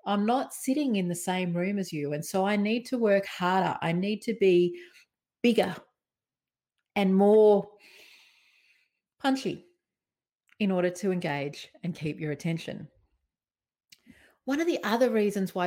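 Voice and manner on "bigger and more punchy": each key word set apart and punched; big and punchy. Shown as a demonstration. Speaker showing how to engage a video audience, punchy. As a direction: hit "bigger", "more" and "punchy" with pauses between. Demonstrates being bigger on video.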